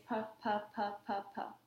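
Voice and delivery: "puff" said in quick repeated bursts; demo syllables. Shown as a demonstration. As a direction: model "puff, puff" rhythmically. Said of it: "the first sound I'm gonna make you say".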